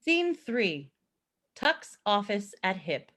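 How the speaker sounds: ordinary talk, nothing marked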